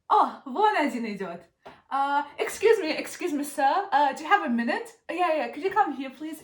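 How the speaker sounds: calling a passing foreigner over, eager and loud. Acted. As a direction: flag him down with overdone enthusiasm. Calling out to a passerby.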